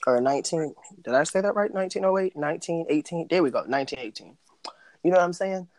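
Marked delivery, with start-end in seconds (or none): 3.3-4.4 quick whispered aside; whispering. Real, not acted. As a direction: whisper it to yourself. Corrects the date, aside.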